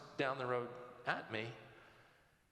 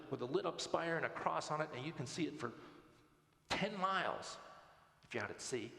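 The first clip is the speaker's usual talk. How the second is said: mildly impassioned student making her case; fired up; 2 semitones higher than usual. Retold or imitated. Student defends her Christian school's welcome, lightly acted fired-up speech. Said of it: "she was fired up".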